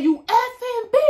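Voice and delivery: high mock yell of a furious girl; retold scream. Girl who got hit screaming at me, mock yell. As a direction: shriek the insult like she lost it. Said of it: "she screaming so loud".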